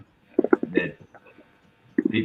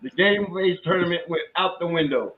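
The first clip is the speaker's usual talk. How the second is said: laughing; 7 semitones higher than usual. Real, not acted. Laughing about lost composure.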